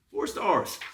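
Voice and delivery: high, incredulous four stars; disbelieving repeat; mock disbelief. Repeating review rating.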